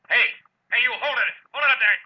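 high, loud yell down the hall; shouting after someone. Acted. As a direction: stop the intruder from the doorway. Detective yells at intruder in hall.

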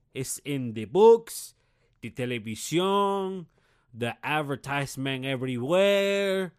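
put-on very slow, loud Spanish-accented English; mock Spanish accent. Declaring that America speaks English, heavy mock Spanish accent. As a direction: drag out every word in a thick Spanish accent.

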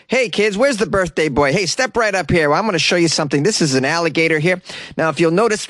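put-on high, upbeat showman voice for kids; step-right-up carnival host pitch; ringmaster. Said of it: "That was my impression of what happened".

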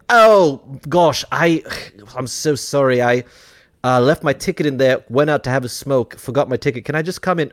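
apologetic British charmer, lightly put on; Hugh Grant. Blagging past the ticket person, hammed-up apologetic British accent. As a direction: bumble sweetly in a mock British accent. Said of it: "Hugh Granting, ineffable charming his way".

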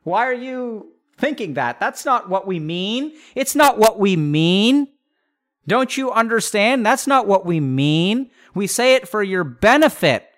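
indignant parent, pushing back harder; a parent insisting they mean well; mock defensive parent. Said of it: "They'll say, like".

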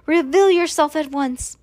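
high-pitched, imperious storybook order; commanding shout. A narrator's reading. Woman ordering hidden sister out, commanding shout. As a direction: demand they come out of hiding. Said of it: "shouted Eugenia".

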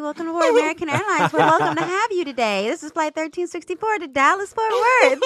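high, bright cabin announcement voice; flight attendant voice. Shown as a demonstration. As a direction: welcome passengers aboard over the intercom. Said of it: "I got my flight attendant voice".

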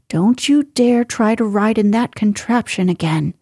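a touch of a scolding housekeeper; lightly voiced warning, understated; mild scolding. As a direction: housekeeper gently scolds Penny, mildly stern. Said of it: "scolded the housekeeper".

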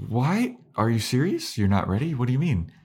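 high disbelieving questions; shocked Anya. Retold or imitated. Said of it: "And she's like".

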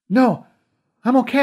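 high, loud shout across the hall. A narrator's reading. Connor shouting back to his aunt, loud and high. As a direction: call out over the chaos. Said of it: "I shouted".

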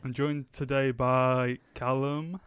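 slow, loud posh presenter drawl; posh host voice. Pretend. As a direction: stretch out the names like a posh host. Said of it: "Why are you pronouncing our names like that?".

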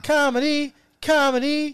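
loud, very high squeal of a word; high-pitched exclamation. Real, not acted. Chiming in that joking is comedy, high excited shout. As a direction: pitch it way up and call it out. Chimes in on jokes being comedy.

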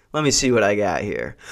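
low, lazy smug guy; smug slow drawl. Retold or imitated. Mimicking the tall dude stalling at the counter, smugly. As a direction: drag it out like a smug flirt. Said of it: "starts thumbing through the bills and goes".

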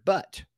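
"but" lifted high and set apart; stressed but. Retold or imitated. Coach quoting a client's habit word "but" with a lift. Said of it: "the guy kept saying the word".

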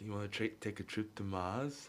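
put-on light Austrian action-star accent; Arnold Schwarzenegger. Friend shares smoking code with co-host, light mock Austrian accent. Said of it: "we would say it in Arnold's accent".

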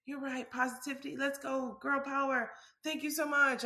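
forced positivity. Retold or imitated. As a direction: brightly fake it to hold together. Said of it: "trying to just hold it together and say".

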